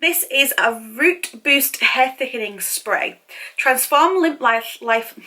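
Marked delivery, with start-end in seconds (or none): 3.6-5.1 words slurred without her teeth; stumbling, loose-teeth speech; loose dentures. Real, not acted. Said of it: "I can't bloody speak, put my teeth in".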